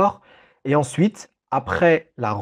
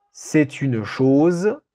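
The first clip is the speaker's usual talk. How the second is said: dictating slowly; slower than usual. Shown as a demonstration. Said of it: "Je répète cette phrase".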